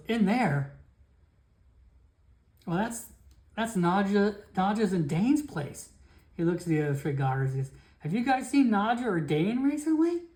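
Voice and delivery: worried guard asking around; alarmed guard Felix. Acted. Guard Felix alarmed that the cult is in friends' house, high anxious questions.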